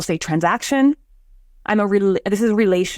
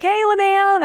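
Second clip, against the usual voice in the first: high greeting; 12 semitones higher, slower than usual. Retold or imitated. Greeting quote in coffee story.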